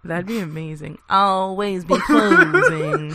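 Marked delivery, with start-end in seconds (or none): 1.1-3.1 hissing feral vampire. Pretend. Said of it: "speech from Alec Baldwin ... delivered in "The world is a vampire" voice".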